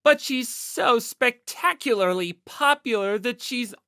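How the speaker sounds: loud, slow, puffed-up otaku voice; proud otaku boast. Acted. Yamada boasting about the idol, loud proud otaku voice. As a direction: chest out, lecturing with pride. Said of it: "he stuck out his chest as he said".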